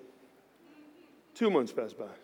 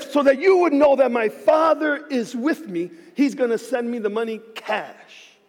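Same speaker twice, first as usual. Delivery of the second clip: higher and slow, declaring to God; bold prayer; 5 semitones higher, 3 dB louder than usual. Retold or imitated. Pastor retelling his bold prayer to God, high and slow. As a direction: lay down the challenge slowly. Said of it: "And I said".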